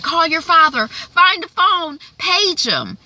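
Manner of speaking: high, loud, urgent call to find dad; frantic mom. Retold or imitated. Mother at the game urging her daughter to call the father, frantic. Mother panicking over injured son.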